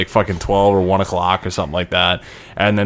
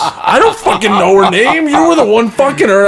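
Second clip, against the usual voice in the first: high, loud, laughing insistence; 13 semitones higher, 4 dB louder than usual. Real, not acted. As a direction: protest through laughter.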